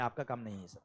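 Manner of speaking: ordinary delivery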